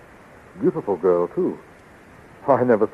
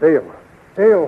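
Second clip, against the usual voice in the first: louder, rising call of her name; 5 semitones higher, 5 dB louder than usual. Acted. Flash calling to the lifeless Dale, desperate.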